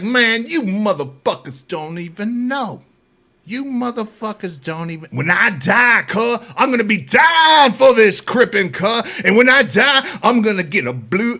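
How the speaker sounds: high imitated harangue, bursting into shouts; mock fervent rant. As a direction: rant at the tier like a devoted gangbanger. Acts the ranting gang member.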